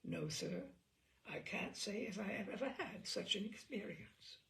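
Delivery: a stiff, polite policeman's deadpan; polite reply. Retold or imitated. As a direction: inspector politely answering Bob, softly courteous. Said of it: "the inspector politely replied".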